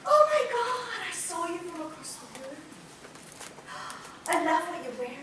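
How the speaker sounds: lightly hammed-up breathless swooner with gasps; gushing visual person. Visual person flirting across the room, gushing. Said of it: "a visual person will say".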